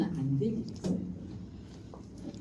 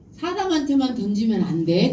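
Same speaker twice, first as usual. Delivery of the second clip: 부모 말 흉내; 6 dB louder than usual. Retold or imitated. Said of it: "그랬대".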